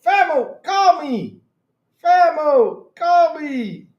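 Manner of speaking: high, drawn-out mock wail ending in laughter; hammed-up urgent call; mock-urgent plea. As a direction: plead into the phone, cracking up on the last word. Mock plea to friend not answering.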